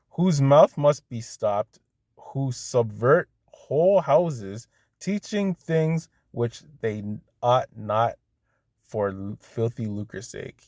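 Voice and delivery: slow, measured Bible reading; scripture reading. Real, not acted. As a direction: read the verse out slowly and deliberately. Reads out a scripture verse.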